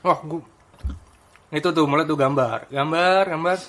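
talking while chewing loudly; noisy mouthfuls between words; messy loud eating. Real, not acted. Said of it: "Ini ngomong-ngomong sambil makan asik nih ya". (bicara sambil mengunyah keras)

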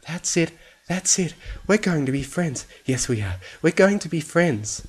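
high, eager character voice; over-eager high coaxing; desperately insistent. A narrator's reading. Fluttershy forces friendship on rabbit.

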